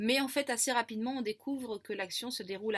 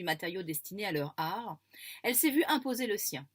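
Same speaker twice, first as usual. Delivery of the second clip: story reading; 4 dB louder than usual. Acted. Reads the first chapter aloud.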